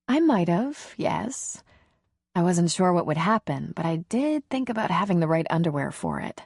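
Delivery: light female character voice; lightly voiced woman. Leslie speaks, higher than narration.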